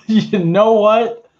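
high squeal of laughter, then slow; bursting out laughing at the joke. Real, not acted.

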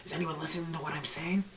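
hushed, furtive whisper. Acted. Whisperer asking if anyone is listening, whispered. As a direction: whisper to check who might hear. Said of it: "I'm gonna, I'm gonna whisper it".

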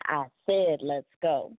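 lightly growled firm command; Batman voice. Retold or imitated. Mom repeating the call in a mild Batman growl. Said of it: "in a Batman's voice".

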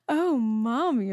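put-on slow, high little-girl voice; imitating her toddler's sweet voice. Mother imitating her little daughter's adoring voice. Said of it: "and she goes".

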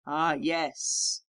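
lightly sighed, resigned reply; great sigh. A narrator's reading. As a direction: answer on a mild sigh. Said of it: "with a great sigh".

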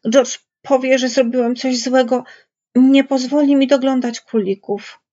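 high, pleading complaint; plead, fearing the punishment to come; anxious begging. A narrator's reading. Lenny fearing he will lose the rabbits, begging. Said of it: "błagał".

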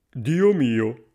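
loud, amazed exclamation; a touch of shock in a put-on voice; astonished stranger. A narrator's reading. Stranger amazed by driverless cart. (forestiero stupito, voce forte)

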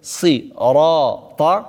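"Sirata" with thick, dark consonants and long vowel; slowly weight the letters of "Sirata"; heavy letter. Shown as a demonstration. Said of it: "zware letter".

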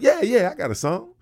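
high, loud cocky glee; bragging triumph; excited. Retold or imitated. Pleased with himself, retold.

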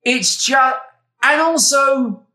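high giggly voice; real giggles breaking the words; laughing through words. Real, not acted. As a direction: squeak it out while cracking up. Giggling after controversial rant.

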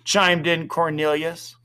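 ordinary delivery, nothing marked

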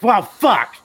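high, loud burst of comic shock; mock dismay. Panellist retelling his reaction to the list, mock-dismayed outburst. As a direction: blurt it out in exaggerated exasperation.

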